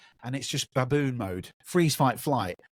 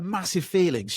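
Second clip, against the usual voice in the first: ordinary talk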